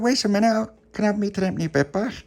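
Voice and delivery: high, loud protest; piping little voice demanding; indignant child. Acted. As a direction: call out high to stop someone. Little pappy calls man back.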